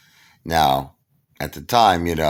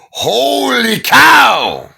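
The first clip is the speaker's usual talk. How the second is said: Phil Rizzuto; 11 dB louder, much slower than usual. Retold or imitated. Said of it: "like Phil Rizzuto".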